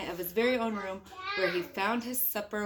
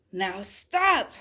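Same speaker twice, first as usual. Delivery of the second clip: commanding stop; 7 dB louder than usual. Acted. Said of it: "Max said".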